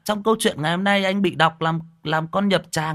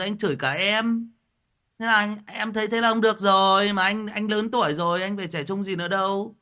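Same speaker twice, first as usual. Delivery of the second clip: heated lecture; 4 semitones higher than usual. Real, not acted. Scolding Tuấn on stream.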